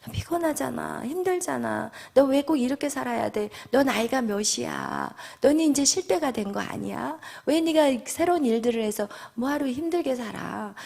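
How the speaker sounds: hushed, falsely sympathetic tempter; feigned understanding. Acted. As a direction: sweet-talk them into giving up, quietly. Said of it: "엄청나게 나를 이해하는 것 같이".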